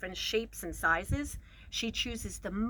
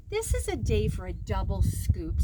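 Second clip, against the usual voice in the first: cheerful announcement; 6 dB louder than usual. Acted. Mama announces treat.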